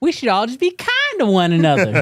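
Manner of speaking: put-on cornbread voice, high and swooping. Reading out a viewer's message as it asks: cornbread voice. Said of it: "in my cornbread voice".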